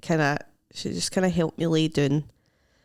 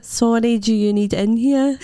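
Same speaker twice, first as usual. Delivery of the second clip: sheepish apology from the floor; 3 semitones higher, 4 dB louder than usual. Retold or imitated.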